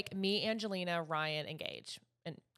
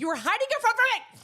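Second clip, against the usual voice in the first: loud playful accusation, pitched up; mock accusation; 12 semitones higher, 8 dB louder than usual. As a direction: call her out, half laughing. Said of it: "accusing friend playfully".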